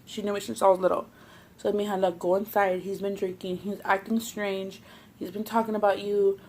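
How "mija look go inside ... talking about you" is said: hushed warning. Retold or imitated. Neighbor warns her quietly.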